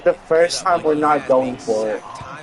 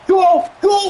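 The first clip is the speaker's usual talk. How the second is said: excited shouting; 14 semitones higher than usual. Real, not acted. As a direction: cheer the runner on. Cheering a kick return.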